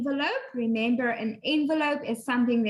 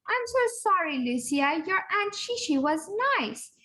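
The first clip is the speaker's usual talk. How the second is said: gently comforting, higher; sympathetic; 5 semitones higher than usual. Retold or imitated. Simon comforting Lucia about her aunt, gently sympathetic. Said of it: "He's trying to say, 'It's okay, don't worry".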